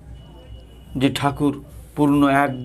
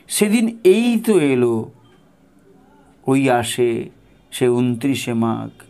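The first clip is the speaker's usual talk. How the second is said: devotional recitation. Acted. Reading Thakur's call to the disciples aloud, devotional recitation. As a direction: read it like a sacred letter, full of longing.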